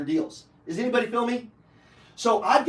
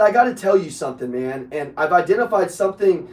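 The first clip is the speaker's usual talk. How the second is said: retold warning to client; 4 semitones lower, 6 dB louder than usual. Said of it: "I said".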